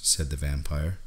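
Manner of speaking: usual speaking voice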